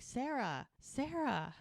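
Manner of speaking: high mock call without real volume; calling after her. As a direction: imitate calling someone through a crowd. Retold man calling into crowd.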